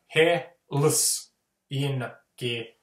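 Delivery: Helsinki chopped wrongly as "he, ls, in, ki"; "he, ls, in, ki" split at the wrong points; wrong syllable split. Shown as a demonstration. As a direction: break it into "he" "ls" "in" "ki", each piece separate. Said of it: "We don't like breaking down the word into".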